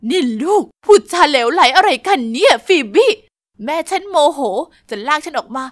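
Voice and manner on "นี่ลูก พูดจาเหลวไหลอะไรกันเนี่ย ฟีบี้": scolding mother. Acted.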